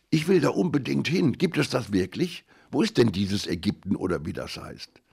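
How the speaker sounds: put-on high, eager kids asking all at once; excited child voices. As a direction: blurt it out like thrilled children. Children excited about Egypt.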